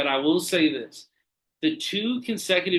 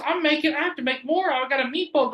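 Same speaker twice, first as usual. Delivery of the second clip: high, squeaky indignant manager voice; hammed-up high-pitched manager; mocking angry manager; 12 semitones higher than usual. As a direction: whine it like an outraged boss claiming his bread. Imitating manager continuing complaint.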